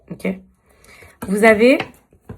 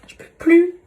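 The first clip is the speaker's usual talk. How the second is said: exasperated outburst; 9 semitones higher, 5 dB louder than usual. Real, not acted. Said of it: "je suis trop énervée".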